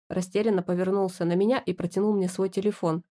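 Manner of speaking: usual speaking voice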